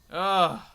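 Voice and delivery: loud groan of exasperation; exasperated groan. Real, not acted. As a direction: groan "ugh", fed up. Exasperated at people's reaction.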